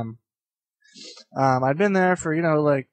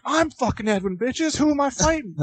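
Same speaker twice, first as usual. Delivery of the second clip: high-pitched mock bravado; imitated jock challenger; 10 semitones higher than usual. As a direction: play the jock friend taking on the fight. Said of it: "one of the huge-ass jock guys".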